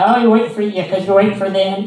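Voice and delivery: a hint of the sugary old lady; mocking the nosy lady, toned down; lightly voiced old lady. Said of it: "it's like".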